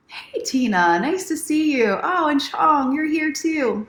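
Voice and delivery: light up to greet them; excited greeting. Real, not acted. Welcoming Tina and Chong as they join, delighted. Greeting viewers joining live.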